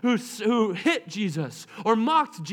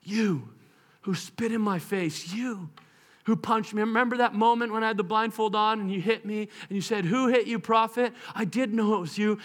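gentle. Acted. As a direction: speak tenderly to the ones who hurt him. Risen Jesus addresses his tormentors.

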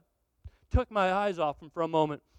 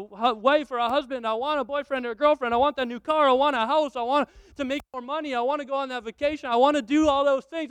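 impatient believer; 4 semitones higher than usual. Acted. Believer listing wants to God.

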